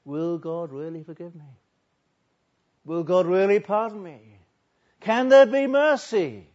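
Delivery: acted anxious questions, building to a loud cry; preacher voicing a desperate penitent; frightened pleading. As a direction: start restrained, end in a high, loud plea. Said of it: "was frightened now".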